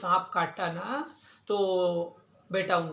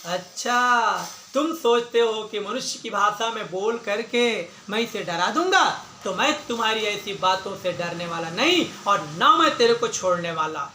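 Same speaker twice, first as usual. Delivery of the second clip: angry hunter. Acted. Hunter threatens the snake that killed the boy, mildly angry. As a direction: scold with a touch of menace, as a storyteller would. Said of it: "शिकारी क्रोध करके बोला".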